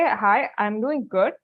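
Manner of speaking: slow, careful "Hi, I'm doing good."; a candidate answering the interviewer's greeting, slowly and politely; polite model answer. Shown as a demonstration. Teacher models the right reply, slowly and politely. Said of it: "You say".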